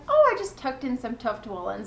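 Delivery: lightly mimicked offhand reply; offhand, mildly mock-casual quote; imitated nonchalance. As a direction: toss it off casually, quoting a friend. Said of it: "So nonchalant".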